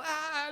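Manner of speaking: high-pitched drawn-out "aah"; mock panicked cry. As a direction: imitate a man overreacting with a high wail. Imitates Peter panicking once more. (grito fingido de susto, agudo)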